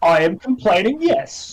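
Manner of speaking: put-on American accent, overacted; pretend-acting American accent. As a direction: act it out in an American voice. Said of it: "for me to do an American accent, I have to pretend to act".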